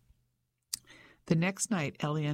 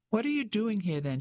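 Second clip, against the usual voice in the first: demanding; 6 semitones higher than usual. A narrator's reading. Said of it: "she demanded".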